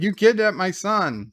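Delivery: mock outrage at the accusation; retold accusation. Father confronts his son's kidnappers, indignant.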